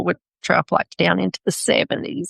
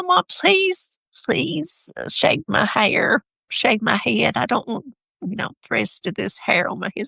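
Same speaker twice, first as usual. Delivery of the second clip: put-on pleading child's voice; 3 semitones higher than usual. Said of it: "She said".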